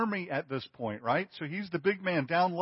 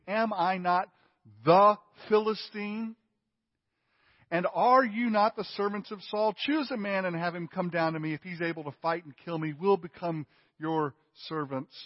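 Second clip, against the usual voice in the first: much higher, much louder mocking challenge; taunting giant; 4 semitones higher, 5 dB louder than usual. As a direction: bellow the taunt like a giant daring the army. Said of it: "Essentially what he's saying is".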